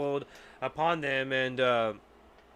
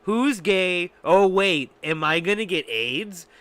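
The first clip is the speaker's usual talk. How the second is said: louder mock drunk blurt; Mel Gibson quote; 6 dB louder, slower than usual. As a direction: toss off the quote a bit quicker. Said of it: "said this".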